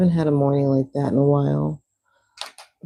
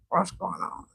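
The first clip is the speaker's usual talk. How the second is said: whisper; 8 dB quieter than usual. Retold or imitated. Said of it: "She's like".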